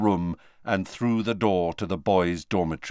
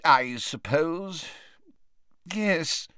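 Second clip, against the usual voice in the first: agitated; 8 semitones higher, much slower than usual. Acted. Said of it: "in a rather agitated voice".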